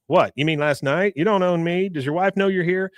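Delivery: playing it up. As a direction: act out a put-on public scene. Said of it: "playing up this whole ... gay thing".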